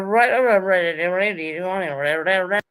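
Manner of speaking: imitating fast garbled speech; a mocking stuttering mumble. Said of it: "Are you making fun of my accent?".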